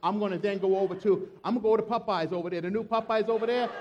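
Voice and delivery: building into a loud, fast comic outburst; mock frustrated rant. Preacher playing a fed-up Jesus for the congregation, loud comic rant. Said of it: "I'd say".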